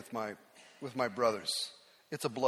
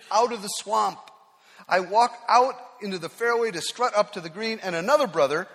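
ordinary talk, nothing marked

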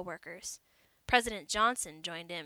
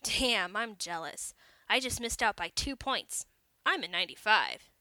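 boasting; 6 dB louder than usual. Acted. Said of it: "he boasted".

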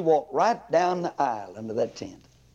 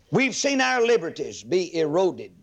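building sermon. Acted. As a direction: preach it up to a fever pitch. Preaching builds to climax.

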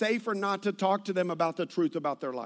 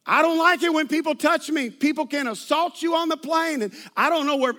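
higher and louder complaint; mock loud rant; 4 semitones higher, 4 dB louder than usual. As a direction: complain loudly to the whole cabin. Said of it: "she yelled out".

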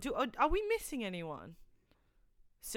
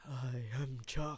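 bad accent; 6 semitones lower, 5 dB quieter than usual. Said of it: "That's such a bad accent".

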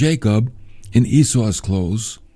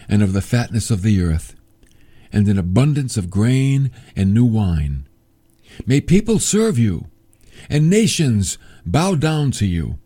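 solemn blessing; 3 semitones lower than usual. Acted. Reads out Isaac's blessing.

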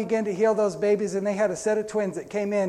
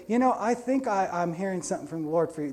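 gentle. Retold or imitated. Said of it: "Just so gentle".

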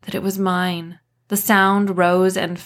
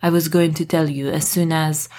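defensive. A narrator's reading. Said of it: "Dominic spoke defensively".

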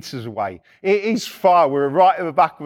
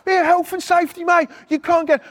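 raised, higher-pitched imitation of an irate worker; higher mock rant at the intruder; mock angry bloke; 10 semitones higher than usual. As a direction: play the jobsworth kicking off, half-mocking. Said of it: "This bloke's going mad".

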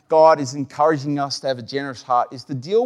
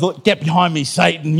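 mock rebuke. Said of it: "the first voice was".

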